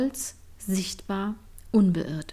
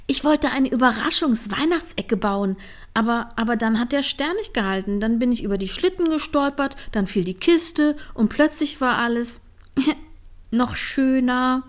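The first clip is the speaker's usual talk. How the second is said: bubbly, higher, tumbling over the words with a giggle; excited rush; 4 semitones higher, 3 dB louder than usual. Acted. Line explains the chaos to Trini, excited and giggling. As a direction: gush about the disaster like a proud child. Line proudly recounts her mishap.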